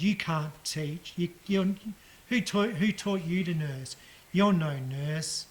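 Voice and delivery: slow, emphatic mock scolding; rude patient. Old patient berating her nurses in hospital, mock scolding. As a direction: imitate a rude old patient telling someone off, drawing words out. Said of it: "The lady was very rude".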